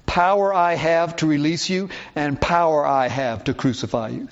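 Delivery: "Power" put first and stressed both times; emphasis on POWER. Shown as a demonstration. Pilate asserting his power over Jesus, stress on "power". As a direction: lean on each "power". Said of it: "puts the emphasis on the word power".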